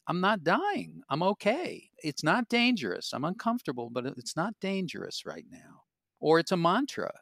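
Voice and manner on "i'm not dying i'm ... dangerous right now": self-reassurance. Shown as a demonstration. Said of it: "just saying".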